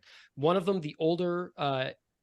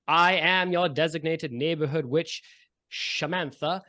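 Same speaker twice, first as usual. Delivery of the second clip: magically projected witch; 2 semitones higher, 3 dB louder than usual. Acted. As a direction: project it across a whole lawn. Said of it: "her voice is magically projected across the whole lawn".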